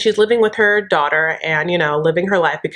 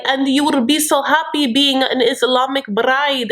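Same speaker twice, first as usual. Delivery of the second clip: imitating Yazin; 5 semitones higher than usual. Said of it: "And he's like".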